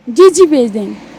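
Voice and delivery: lightly voiced young woman on the phone; a hint of a coy girl chatting; girl's voice. Prank caller chatting with the host as a girl. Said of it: "کر کے تو دکھائیں".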